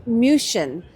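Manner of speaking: München said the German way, MUEN-shen; name the city as the Germans say München; German pronunciation. Shown as a demonstration. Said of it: "is how the Germans say Munich".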